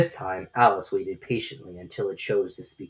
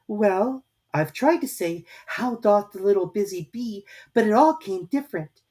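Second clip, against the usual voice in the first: melancholy; 11 semitones higher, 4 dB louder than usual. A narrator's reading. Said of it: "in a very melancholy voice".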